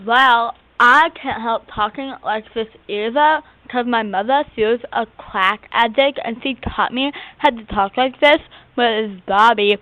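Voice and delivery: put-on lisping character voice; weird lisp. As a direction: talk with an odd, affected lisp. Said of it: "she talks with this weird lisp".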